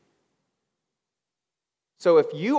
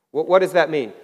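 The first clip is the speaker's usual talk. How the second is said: ordinary talk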